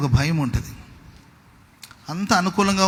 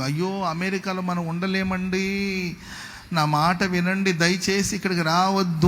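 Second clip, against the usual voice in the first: imitated pleading; 2 semitones higher, 4 dB quieter, slower than usual. Voicing emigrants pleading from America.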